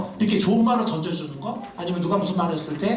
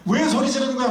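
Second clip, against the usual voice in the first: higher, half-hearted angry question; mock angry retort; 7 semitones higher than usual. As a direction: act out yelling back at the spouse. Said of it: "막 같이 소리 지르지 말고". (맞받아 소리치는 흉내, 높은 톤)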